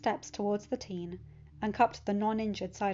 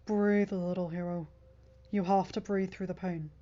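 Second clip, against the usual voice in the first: tender Bucky. A narrator's reading. Bucky voiced in story.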